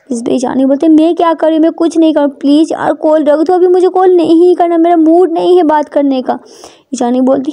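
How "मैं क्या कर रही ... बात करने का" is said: slightly higher, insistent refusal; annoyed Prita. Acted. Prita has no mood to talk, annoyed. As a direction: refuse the conversation with mild annoyance.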